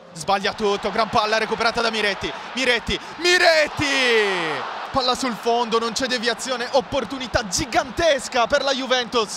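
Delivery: fast, loud rising play-by-play; excited commentary. Real, not acted. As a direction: call the near-miss with urgency. Big chance for Juventus.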